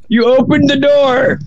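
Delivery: slow Scottish-tinged accusation; Scottish-sounding. Real, not acted. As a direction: accuse with a slight Scottish twist. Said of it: "why did he sound all Scottish?".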